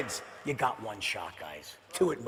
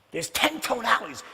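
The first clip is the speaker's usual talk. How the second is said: ordinary talk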